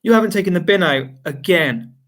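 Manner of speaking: accusing. Retold or imitated. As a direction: attack him with the complaint. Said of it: "Attack him, accuse him".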